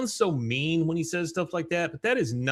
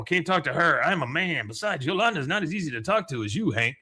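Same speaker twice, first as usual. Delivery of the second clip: Enrique; 3 semitones higher than usual. Retold or imitated. Enrique voiced, higher.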